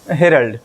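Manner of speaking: हेरल्ड said HEH-ruld with a short middle vowel; correct pronunciation. Shown as a demonstration. Teacher modelling the right हेरल्ड for exam students. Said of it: "ये होता है".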